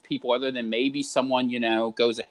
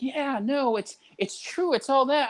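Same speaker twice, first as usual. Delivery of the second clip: put-on much higher, nodding old-timer voice; boomer agreeing; 12 semitones higher than usual. Boomer agreeing it's the kids, high mock voice. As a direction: agree like a grandpa, pitched high. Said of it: "he'll be like".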